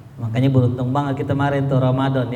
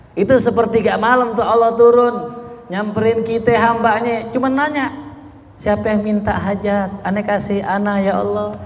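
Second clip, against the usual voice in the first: voicing God's call; 5 semitones higher than usual. Allah's voice voiced in sermon.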